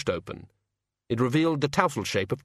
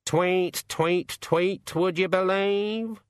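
high-pitched cawing bird figure; high raven voice; 8 semitones higher, much slower than usual. Acted. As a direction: talk as a chirping raven, drawing out the last words. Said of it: "said the raven".

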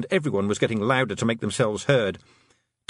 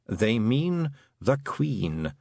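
slow, drawn-out toad; unhurried toad explainer; much slower than usual. Acted. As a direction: explain it slowly, in a toad's voice. Toad explains in his own voice.

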